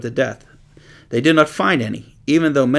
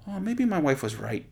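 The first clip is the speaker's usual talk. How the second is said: laughing disciple; 6 semitones higher, 7 dB quieter than usual. Retold or imitated.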